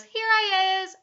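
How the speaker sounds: put-on high, loud child's answer; calling out. A narrator's reading. Invisible boy answers his mummy, calling out high. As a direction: pipe up to be found.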